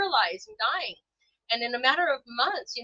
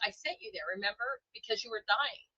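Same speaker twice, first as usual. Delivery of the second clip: gentle voice of God; 2 semitones lower, 6 dB quieter than usual. Retold or imitated. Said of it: "the feeling of God's like".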